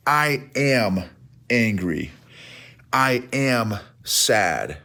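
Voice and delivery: blunt identity statements, each feeling word set apart and dropped; wrong way of expressing emotion. Shown as a demonstration. Coach showing listeners how not to express emotions, blunt and halting. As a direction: declare each feeling as a fact, with pauses before it. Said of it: "you don't express it this way".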